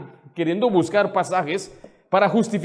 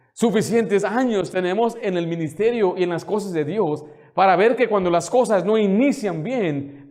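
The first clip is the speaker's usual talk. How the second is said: ordinary talk, nothing marked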